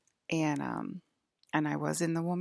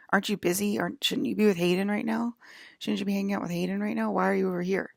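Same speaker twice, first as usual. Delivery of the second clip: higher, louder run of imitated questioning; retold pestering questions; 4 semitones higher, 5 dB louder, faster than usual. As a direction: press them with question after question, as if quoting. Retold challenge, agitated questions.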